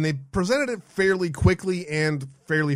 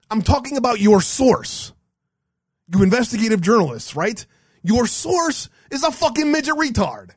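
angry rant; 5 semitones higher than usual. Real, not acted. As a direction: build the outrage to a peak. Rant climbs at critic.

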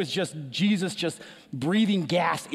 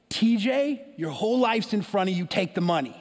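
stern; 3 semitones higher than usual. Retold or imitated. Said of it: "in a very stern way".

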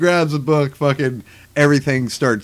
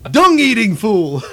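laughing mock insult; 7 semitones higher, 3 dB louder, slower than usual. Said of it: "acted insult".

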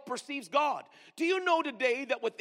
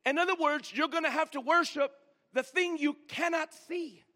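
preaching shout; 4 semitones higher than usual. Real, not acted. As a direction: drive the point home.

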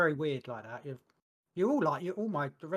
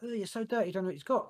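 mock disgusted coworkers; 6 semitones higher than usual.

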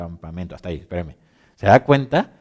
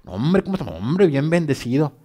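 mock pious greeting; 4 semitones higher than usual. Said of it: "muy teatreros, ¿verdad? Como estos cuates".

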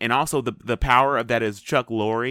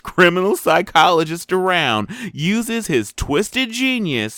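slower, slightly raised read-out voice; synopsis read-out; 4 semitones higher, 6 dB louder, slower than usual. Acted. Co-host reads the show synopsis to listeners, slow read-out. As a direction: read it out slowly like a show blurb.

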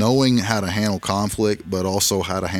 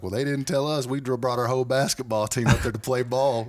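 lightly voiced boy, pitched much higher; a hint of a young basketball player complaining; imitating a kid; 4 semitones higher than usual. Retelling what the little basketball boy said, a lightly voiced, higher kid. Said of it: "he's like".

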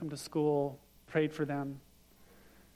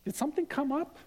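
higher, gently surprised question; curious surprise; 5 semitones higher than usual. Retold or imitated. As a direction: ask wondering, a little amused.

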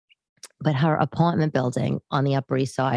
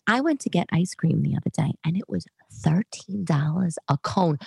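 whispered aside. Acted. Confiding price shock aside.

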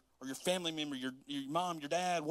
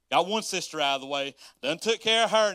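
excited; 9 dB louder than usual. Acted. Preacher voicing Jesus, amused.

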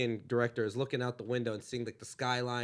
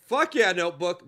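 louder, rowdy theater heckle; retold drunk yell; 3 semitones higher, 6 dB louder than usual. Drunk moviegoer heckling in the theater, a mock yell. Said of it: "I did yell that in the theater".

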